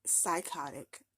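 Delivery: Psychotic drawn out slowly, falling. Real, not acted. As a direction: drag out Psychotic as a flat verdict. Verdict after mocking quote.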